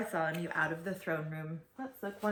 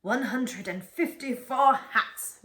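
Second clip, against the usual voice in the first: nervous gulp; 4 semitones higher, 5 dB louder than usual. A narrator's reading. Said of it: "gulped Sir Alaric".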